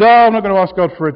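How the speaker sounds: quick, prim, self-righteous retort. Retold or imitated. Preacher mimicking Isaiah refusing God, mildly self-righteous. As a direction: play Isaiah a little smug and fast. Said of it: "a bit, bit self-righteously".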